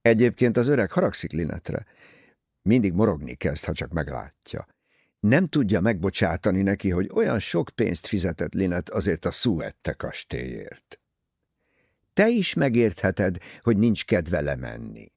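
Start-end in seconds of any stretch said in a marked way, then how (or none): none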